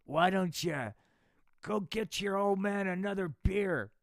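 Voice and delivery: mildly loud beer-ordering dad; drunk dad. Acted. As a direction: bark it like a lazy drunk father.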